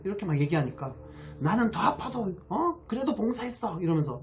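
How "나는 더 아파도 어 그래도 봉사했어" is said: high, indignant retelling of a church member's rebuke; imitating a huffy scold, higher and sharper; mock angry scolding. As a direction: play the self-righteous volunteer scolding, pitched way up. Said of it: "막 이렇게 화를 냅니다".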